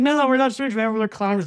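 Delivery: high, laughing through the words; laughing reply. Real, not acted. Host retelling what he told the dealer, laughing. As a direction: answer while cracking up.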